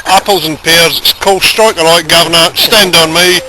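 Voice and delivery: put-on Cockney geezer patter; hammed-up London Cockney; mock Cockney accent. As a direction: reel off Cockney slang in a playful imitation. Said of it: "who's never lost his Cockney accent".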